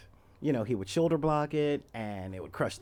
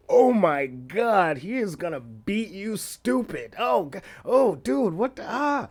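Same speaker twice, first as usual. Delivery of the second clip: put-on much higher and louder, panicked kids yelling; freaking-out kids; 9 semitones higher, 8 dB louder than usual. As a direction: squeal like kids seeing a fight coming. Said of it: "the kids at school were freaking out".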